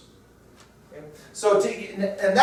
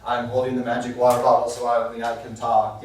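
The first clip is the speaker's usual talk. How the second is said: mock kid rule; 8 semitones lower than usual. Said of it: "It's like".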